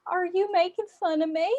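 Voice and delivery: imitated Southern accent. Cashier questioning the customer who copied her, imitated Southern accent. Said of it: "had an accent".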